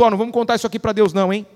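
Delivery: fast, secretive mock aside; conspiratorial aside. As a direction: rattle it off like hiding a secret. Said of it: "imagina Jesus falando pro Espírito Santo". (Jesus cochichando com o Espírito Santo, rápido)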